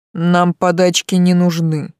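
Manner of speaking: slow, contemptuous hiss. A narrator's reading. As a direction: spit out the refusal. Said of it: "прошипел Ариен".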